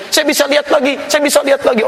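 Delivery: high, joyful repeated cry; overjoyed cry. Retold or imitated. Healed man crying out that he can see, overjoyed. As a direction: exclaim with disbelieving joy. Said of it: "Dia teriak".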